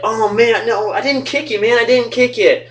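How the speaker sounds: imitating own protest. Denying kick in retold quarrel.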